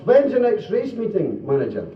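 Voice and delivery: high, slow comic caller; put-on high telephone voice; phone caller. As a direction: draw the question out up high. Same caller questions the manager.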